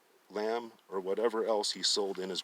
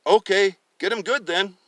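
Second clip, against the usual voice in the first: much higher, louder fatherly voice; old father's voice; 10 semitones higher, 11 dB louder than usual. Acted. Father telling his son to track the deer, high and loud. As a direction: speak as the father, urging.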